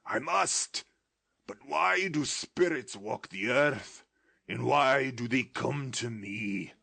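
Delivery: high, loud frightened answer; Scrooge's voice. Acted. Scrooge answering the ghost in fear. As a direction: blurt it out in fear.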